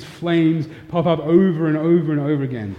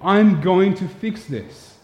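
slow, higher voice of God making a promise; lightly voiced God, slowed and raised; 4 semitones higher, slower than usual. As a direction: speak it slowly and pitched up, as God himself. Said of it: "the first words out of his mouth were".

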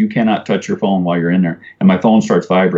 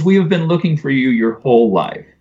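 tearful aunt; 4 semitones higher than usual. Retold or imitated. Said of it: "And she burst into tears".

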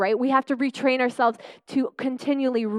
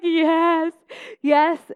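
higher and louder, eager agreement; eager yes; 6 semitones higher, 5 dB louder than usual. Real, not acted. Answering the lady praying over her, eager excited yes. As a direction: blurt out yes as she names it all.

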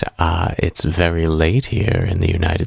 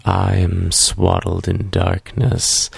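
spooky ghoul voice. Acted. Spooky late-night greeting.

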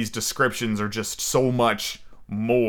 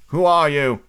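louder, higher challenge; calling out; 4 semitones higher, 6 dB louder than usual. A narrator's reading. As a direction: call firmly to someone behind a door. Peter challenges the unseen knocker.

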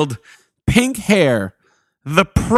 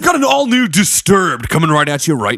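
radio DJ voice. Acted. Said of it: "radio D J voice".

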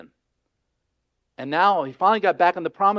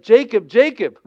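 name called out high and loud; loud, raised double call; emphatic calling; 5 semitones higher, 9 dB louder than usual. Acted. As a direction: call someone twice for emphasis. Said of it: "he says it twice for emphasis".

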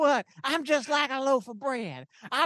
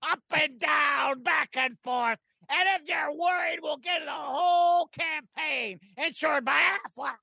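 shouted ad pitch; 3 semitones higher than usual. Acted.

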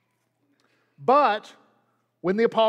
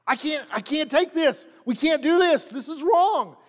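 high-pitched, insistent objection; acted distressed protest; 5 semitones higher than usual. Paul rips his clothes at being worshipped, protesting. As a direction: protest as if you cannot bear it.

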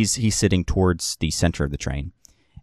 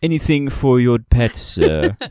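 higher, louder, courteous question; formal bartender; 5 semitones higher, 5 dB louder than usual. Acted. Bartender asking about the pet, innocently formal. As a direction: innocent politeness.

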